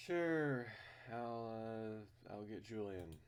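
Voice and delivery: high, eager reply; cheerful character voice. Acted. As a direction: agree brightly. Voices the protagonist.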